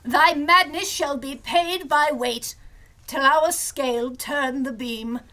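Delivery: a hint of grand stage declaiming; Shakespeare recitation. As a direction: quote the Bard theatrically. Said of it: "Oh, I do love Shakespeare".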